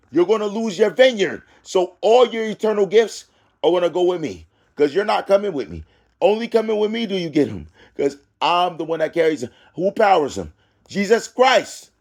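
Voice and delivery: forceful preacher driving the point home; emphatic preaching. Acted. Preaches warning between verses.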